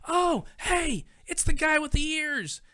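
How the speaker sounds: high, loud excited call across a crowded room. Retold or imitated. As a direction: shout to spot someone far off. Mom calls out across hall.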